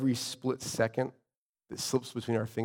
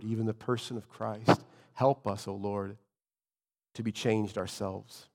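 prayer. Real, not acted. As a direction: lead the congregation gently in prayer. Leads congregation in prayer.

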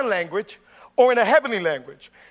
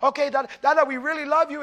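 put-on kids calling dad; 5 semitones higher than usual. Preacher voicing small kids on FaceTime.

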